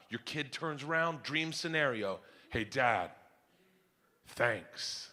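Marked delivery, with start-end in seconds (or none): 2.5-5.1 soft, low, tender thanks; imitated grateful child. Kid turns around to thank dad, soft and sincere. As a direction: voice a kid's heartfelt moment, quietly.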